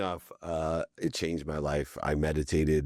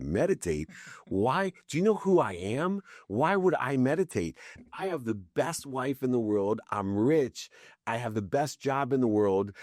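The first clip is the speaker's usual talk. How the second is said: mock-indignant rant, pitched higher; arrogant rant; 5 semitones higher than usual. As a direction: rattle it off like a cocky know-it-all. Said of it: "I literally went into a one-minute diatribe".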